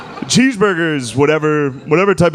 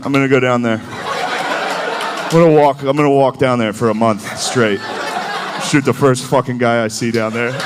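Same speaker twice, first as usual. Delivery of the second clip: mock angry soldier. Angry southerners voiced.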